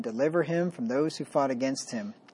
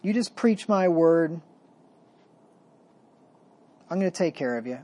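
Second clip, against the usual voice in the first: gentle comfort. Retold or imitated. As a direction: gently reassure a troubled prophet. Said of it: "the Lord gently gives him comfort".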